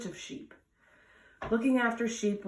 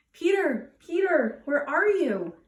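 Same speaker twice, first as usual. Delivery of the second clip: loud, higher call across the hill; 7 semitones higher, 5 dB louder, slower than usual. Acted. Villagers search the hill for Peter, loud calling. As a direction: call for the missing boy.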